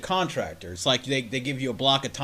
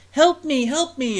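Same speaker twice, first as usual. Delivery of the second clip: higher, louder mock little girl plea; mock girl crying for help; 11 semitones higher, 7 dB louder, slower than usual. Telling a friend about an alley trap, mock girl's cry for help. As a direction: cry out like a fake damsel in the alley. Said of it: "little girl in the alleyway who goes".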